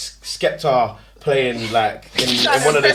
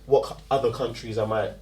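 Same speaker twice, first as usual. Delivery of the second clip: soft polite office voice; work voice; 6 dB quieter than usual. Shown as a demonstration. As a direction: answer in a quiet polite work voice. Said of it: "give me your work voice".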